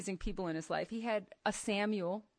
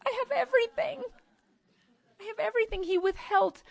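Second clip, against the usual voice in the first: sharp high lift on everything, much louder; excited exclamation; 11 semitones higher, 5 dB louder, faster than usual. Real, not acted. Preacher exulting to the women, high and loud. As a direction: burst out with joy at what she owns. Exulting over her inheritance in God.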